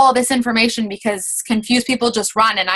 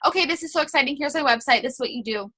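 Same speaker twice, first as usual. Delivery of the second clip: overeager sales pitch; 3 semitones higher, 5 dB quieter, faster than usual. Shown as a demonstration. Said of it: "You don't wanna just send all this".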